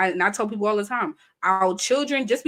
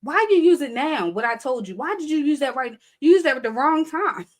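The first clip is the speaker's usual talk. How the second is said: mock a mouthy child; sassy child imitation; kids talking back; 5 semitones higher than usual. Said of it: "And sometimes they be like".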